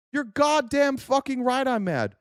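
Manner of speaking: high, slow, every word weighted with anger; madder still. Real, not acted. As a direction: lean harder into the anger on goddamn.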